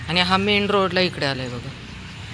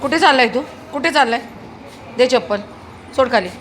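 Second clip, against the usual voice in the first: raised-voice demand; scolding command; 6 semitones higher, faster than usual. Real, not acted. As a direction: order a naughty runaway to give it up. Demanding the slipper back.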